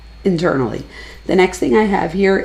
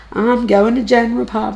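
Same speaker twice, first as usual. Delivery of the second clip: excited; 5 semitones higher, 3 dB louder than usual. Retold or imitated. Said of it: "she gets so excited".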